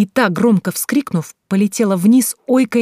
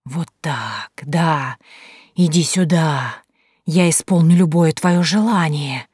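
eager whisper; slower than usual. Acted. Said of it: "голос зашептал ещё быстрее".

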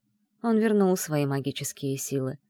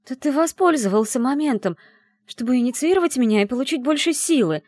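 louder, higher accusing outburst; shouted in his face; 6 semitones higher, 5 dB louder than usual. A narrator's reading. Tearful heroine accuses Erin of using her, loud high shout. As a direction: hurl the accusation at him. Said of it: "выкрикнула ему в лицо".

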